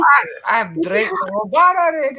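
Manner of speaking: high, loud mock Scottish accent. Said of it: "Go to Scotland".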